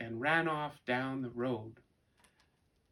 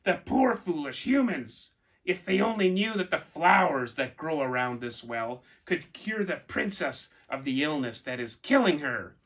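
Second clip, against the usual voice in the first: gloating raven; 3 semitones higher, 7 dB louder than usual. A narrator's reading. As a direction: sneer down at the foolish humans like a raven. Second raven speaks.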